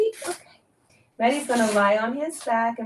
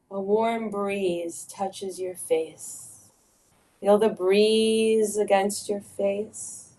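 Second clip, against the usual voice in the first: guided meditation; slower than usual. Acted. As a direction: lead them gently into the garden. Guided visualization.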